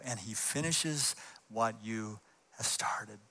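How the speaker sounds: slow hushed whisper; soft slow whispered close; whispered promise. Acted. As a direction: lean in and whisper it. Promise ends in hush.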